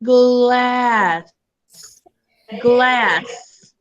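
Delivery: "Glass" stretched out sound by sound; slow blend. Shown as a demonstration. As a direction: draw "Glass" out slowly, blending each sound. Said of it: "Now we're gonna blend it together".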